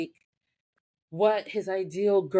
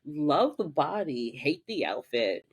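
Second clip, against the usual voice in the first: sassy possessed Piper; 3 semitones lower, slower than usual. Retold or imitated. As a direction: savour the new body, then sneer. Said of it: "she's just like".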